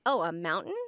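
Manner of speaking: "mountain" with the T swallowed; dropped middle T. Retold or imitated. Answering friend's question in Californian, "mountain" with no T. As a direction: say "mountain" without sounding the middle T. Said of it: "we don't say our T's in the middle of words".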